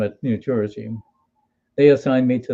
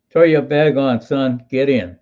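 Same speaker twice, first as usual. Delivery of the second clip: a bit louder, brusque driver's order; gruff greeting; 4 dB louder than usual. Retold or imitated. Bus driver ordering the lost soldier aboard, brusque. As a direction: bark it like a no-nonsense driver. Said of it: "typical warm New Jersey greeting".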